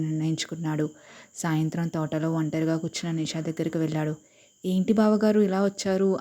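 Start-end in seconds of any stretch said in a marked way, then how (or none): 4.7-6.2 slow, mocking greeting, leaning on బావగారు; sarcastic. Nisha to Vikram in the garden, sarcastic. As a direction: tease him with drawn-out sarcasm. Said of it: "అని వ్యంగ్యంగా అడిగింది".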